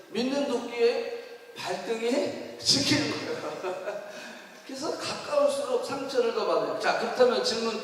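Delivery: usual speaking voice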